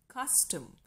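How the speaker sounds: CUS-tom, "cus" high and "tum" falling away; stress on first syllable. Shown as a demonstration. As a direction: punch the "cus" of "custom". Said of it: "So cus is stressed".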